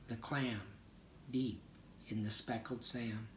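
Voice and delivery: slow, measured poetry reading; a yoga teacher reading a favourite poem aloud, measured. Shown as a demonstration. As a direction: read each image with care, letting pauses breathe.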